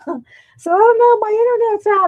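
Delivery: high, loud quoted voice; voicing a worried friend; quoting friend's text. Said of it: "She texted us and said".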